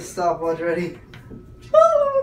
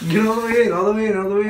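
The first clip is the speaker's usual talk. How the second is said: urging shout; 4 semitones higher, 6 dB louder, much faster than usual. Real, not acted. Urging friend into ice bath.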